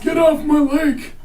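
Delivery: high loud cranky yell; shouting at trespasser. Pretend. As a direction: shout them off your lake. Yelling at lake trespassers.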